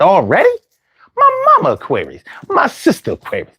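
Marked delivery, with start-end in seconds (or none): 1.2-3.5 excited squeal. Real, not acted. Excited about Aquarius family.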